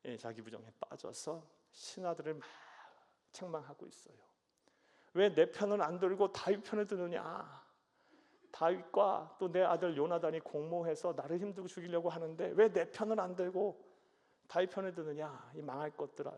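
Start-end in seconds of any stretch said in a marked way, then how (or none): 5.1-16.4 loud bitter scolding, dropping at the curse; scolding king. Acted. Saul berating servants for siding with David. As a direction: berate them like a paranoid king. Preacher paraphrases Saul's scolding.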